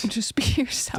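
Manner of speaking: unvoiced breathy whisper; hushed mock-inspirational whisper; whispered advice. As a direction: whisper it like a sappy life coach. Mock self-help advice.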